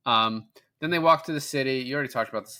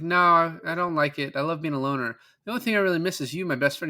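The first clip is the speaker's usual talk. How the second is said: mock pleading; 6 semitones higher, faster than usual. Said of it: "He's like".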